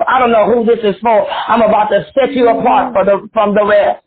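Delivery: prophetic preacher in full flow; fervent preaching. Real, not acted. Prophesies to prayer line.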